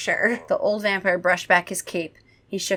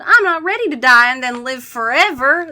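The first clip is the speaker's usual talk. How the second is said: high, loud lament; theatrical, self-pitying moan; 5 semitones higher, 8 dB louder than usual. A narrator's reading. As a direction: wail unhappily about your fate. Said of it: "Kara moaned".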